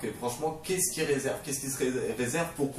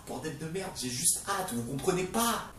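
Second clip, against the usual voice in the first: strained, high-pitched comic impatience; mock desperate impatience; 5 semitones higher, 4 dB quieter than usual. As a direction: plead as if nobody understands.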